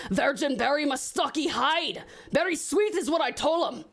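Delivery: rough stab at Scottish; attempted Scottish accent. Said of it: "I cannot do a Scottish accent".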